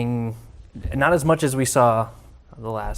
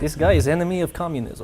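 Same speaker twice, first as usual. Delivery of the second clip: put-on Russian accent; 2 semitones higher, faster than usual. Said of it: "He's doing a Russian accent".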